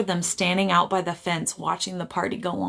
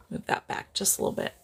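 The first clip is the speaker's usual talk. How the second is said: whispered aside; 6 dB quieter than usual. Real, not acted. Off-camera aside about the tripod.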